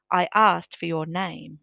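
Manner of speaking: slow, loud, furious repeat; an outraged governor repeating himself, loud and slow; furious anger. Acted. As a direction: spell out each word in slow fury. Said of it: "repeated the governor in furious anger".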